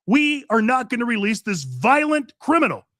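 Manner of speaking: sheriff's defiant no, voiced by the host; defiant retort. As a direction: bark it out like a sheriff saying no way.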